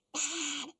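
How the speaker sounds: very soft hushed word; whisper. Acted. Doom whispering outside the bakery, hushed. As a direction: barely breathe it. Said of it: "whispered Doom".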